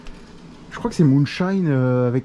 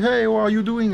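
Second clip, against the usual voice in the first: Américain imité; 7 semitones higher than usual. Retold or imitated. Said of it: "il me dit".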